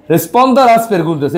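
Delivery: "Responda las preguntas" drawn out syllable by syllable; deliberate, slow classroom reading. Shown as a demonstration. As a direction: read the instruction slowly for students. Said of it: "এবার প্রশ্নের উত্তর দেন".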